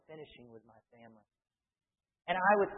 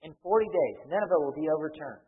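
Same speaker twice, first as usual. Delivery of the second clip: loud, quickening prophet's announcement; proclaiming; 7 dB louder than usual. Retold or imitated. Preacher voicing Jonah to Nineveh, proclaiming. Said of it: "He proclaims".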